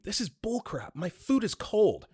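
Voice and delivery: high-pitched acted outrage, not full volume; mock screaming. Customer complaining at the drive-through window, mock screaming. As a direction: imitate an angry customer's shriek, stretching the end. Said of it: "The lady starts screaming".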